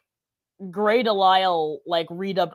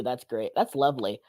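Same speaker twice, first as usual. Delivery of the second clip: pained sarcasm; 8 semitones lower, 7 dB quieter than usual. Real, not acted. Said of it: "it hurts to laugh".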